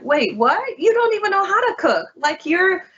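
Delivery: high, fast, laughing disbelief; high incredulous retort, half laughing. Retold or imitated. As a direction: scoff at the sister's nerve. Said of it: "she was like".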